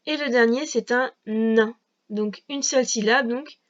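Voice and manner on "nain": "nain" with a long held n at the start; drawn-out dictation. Shown as a demonstration. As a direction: stretch the first sound of "nain". Dicte en allongeant le son.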